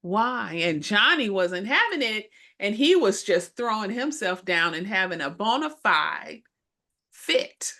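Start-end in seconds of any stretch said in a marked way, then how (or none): 0.0-0.5 mother gently pleading with her son in the store; gentle mother. Retold or imitated. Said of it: "in the most gentle kind of". 7.1-7.7 whisper. Real, not acted. Whispered punchline.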